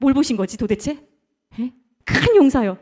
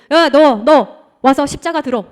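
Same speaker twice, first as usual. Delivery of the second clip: louder, slow mock bark of a soldier; a retold soldier shouting an order; imitating soldier's command; 7 dB louder, slower than usual.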